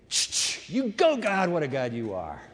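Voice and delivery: lightly voiced casual buddy praise; mock chummy cheer. Young believer to God as a pal, mock-chummy. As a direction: cheer on a pal, dropping low at the end. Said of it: "Like he's the kid next door".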